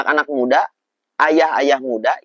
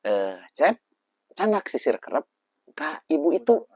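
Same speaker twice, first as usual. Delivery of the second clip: mother's call; 3 semitones higher than usual. Retold or imitated. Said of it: "saya disuruh ambil".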